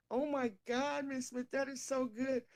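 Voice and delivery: put-on high excited kid voice; imitating the boy. Filipino boy praising her cake, high and excited. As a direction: gush like an eager teen. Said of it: "he said".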